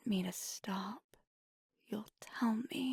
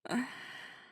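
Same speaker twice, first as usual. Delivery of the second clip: breathy laugh. Acted. Intimate scene, breathy laugh.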